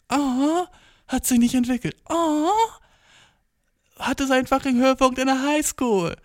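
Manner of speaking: high whiny mocking voice; whiny self-mockery, pitched high; mock whiny self-roast. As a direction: roast yourself in a high whine. Mocking himself as a teen.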